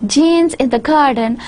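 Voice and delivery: "Jane's" with the 's left unstressed; unstressed linking verb. Shown as a demonstration. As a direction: say "Jane's in the garden" without stressing the contracted is. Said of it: "I'm not stressing sa part".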